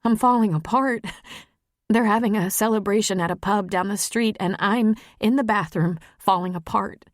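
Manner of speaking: a touch of falling apart to a loved one; upset Maggie, falling apart. Acted.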